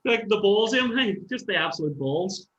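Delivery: admiring. Real, not acted. Admiring exclamation about bandmate.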